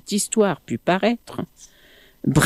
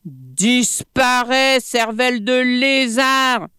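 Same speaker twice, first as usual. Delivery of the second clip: monkey yelling; 6 semitones higher than usual. Acted. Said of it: "lui cria Plamuseau".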